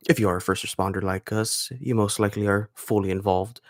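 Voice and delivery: lightly put-on radio announcer voice. Shown as a demonstration. Introducing the show for first responders, radio voice. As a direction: read it like a measured radio intro. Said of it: "let me put on my radio voice".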